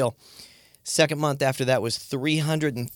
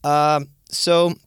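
puffing, out of breath after stairs; out of breath, louder and higher; 6 semitones higher, 5 dB louder than usual. Real, not acted. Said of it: "I'm out of breath".

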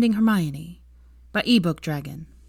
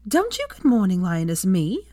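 indignant mock echo; 2 semitones higher, 4 dB louder than usual. Hermione storming in at Draco, angry mocking echo. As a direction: spit his greeting back at him.

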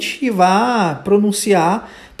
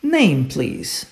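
model for repetition; 5 semitones lower, 4 dB quieter than usual. Shown as a demonstration. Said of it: "So, let's repeat".

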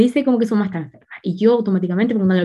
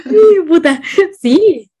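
pained exclamation; 6 semitones higher, 4 dB louder, much slower than usual. Real, not acted. Cringing at her own blunder.

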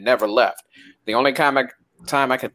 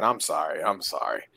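mock apology; 10 semitones lower, 10 dB quieter than usual. Mock apology after scolding.

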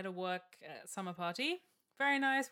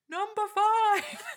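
high, drawn-out mock yell; shouting; 12 semitones higher, 11 dB louder, much slower than usual. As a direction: yell it slowly into a bad line. Colleague yells correction to operator.

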